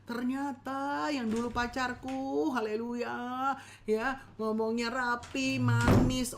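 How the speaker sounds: slow, drawn-out mock disbelief; lightly acted disappointed spouse; a touch of dramatic shock; mock dismay. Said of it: "mulai kaget-kaget".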